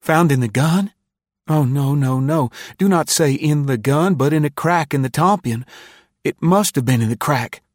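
put-on high, agitated boy in panic; alarmed correction. A narrator's reading. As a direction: blurt an anxious denial, pitched high.

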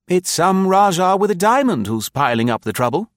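high, keen youngster's voice; eager young officer. Acted. Young officer repeating a rumour to seniors, high and eager. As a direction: chime in eagerly, far above your own pitch.

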